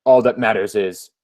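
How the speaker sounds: low, deliberate gloating monologue; scheming comic-book villain. Acted. Villain addressing Aidan Blaine whom he has studied, low and smug. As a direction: savour it like a self-satisfied supervillain.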